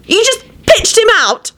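very high, outraged cry; accusing scream. A narrator's reading. Elizabeth accusing Quentin over Lupin, screaming. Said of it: "Elizabeth screamed accusingly at Quentin".

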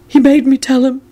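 high-pitched, mildly anxious excuse; hasty Neville. A narrator's reading. Neville blames another under Lupin's glare, hastily. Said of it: "Neville mumbled hastily".

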